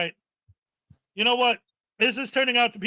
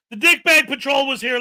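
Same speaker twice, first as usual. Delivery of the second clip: loud announcement; 3 semitones higher, 5 dB louder than usual. Real, not acted. Announcing the channel name.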